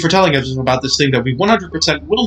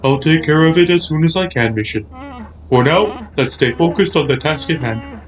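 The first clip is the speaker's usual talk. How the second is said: Piglet the Cat voice; 2 semitones higher than usual. Acted. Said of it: "slowly slipping into his Pig the Cat voice".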